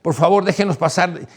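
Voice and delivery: high, loud pleading cry of no and let them go; panicked high shouting, begging the crowd; retold hysterical yell. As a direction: imitate a frantic woman shouting for the crowd to back off. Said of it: "una mujer rubia ... que gritaba".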